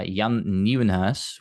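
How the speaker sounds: careful Dutch accent on Jan Nieuwenhuis, taken slowly. Shown as a demonstration. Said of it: "in my best Dutch accent".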